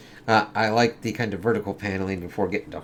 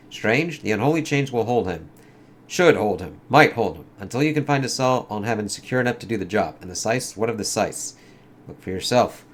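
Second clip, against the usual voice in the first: lightly acted comic dialogue, in character; comic characters voiced; 3 dB louder than usual. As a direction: read it like a dramatic comic scene. Reads dialogue.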